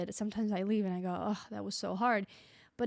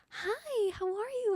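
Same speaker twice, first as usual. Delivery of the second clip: put-on very high, slow, fake-nice kid voice; 13 semitones higher than usual. Speaker acting out greeting very young children, in a put-on little high-pitched voice. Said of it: "you're doing that little high pitched voice".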